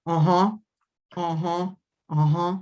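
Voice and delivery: open-mouthed, short "uh-huh"; wary uh-huh. Shown as a demonstration. Walking in a bad neighborhood, guarded uh-huhs. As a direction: voice it as a guarded grunt. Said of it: "You're walking in a bad neighborhood".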